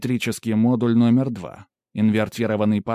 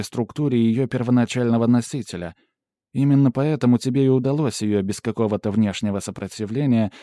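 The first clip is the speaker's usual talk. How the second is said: lightly voiced assistant, slightly raised and louder; assistant giving a report; 3 semitones higher, 4 dB louder than usual. Pandora reporting scan results to the hero, lightly voiced assistant. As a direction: report findings with an analyst's formal precision.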